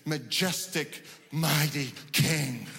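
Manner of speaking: mock-grand prayer, spaced out word by word; lofty prayer words. Preacher imitating ornate public prayer, lofty. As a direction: intone it grandly, slowing on the last words. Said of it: "you know, the great words".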